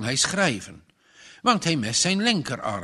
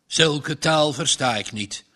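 growled. Acted. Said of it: "gromde de boer".

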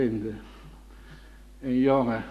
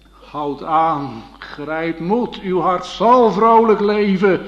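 fervent exhortation; 5 semitones higher, 10 dB louder, slower than usual. Acted. Preacher exhorting the seekers.

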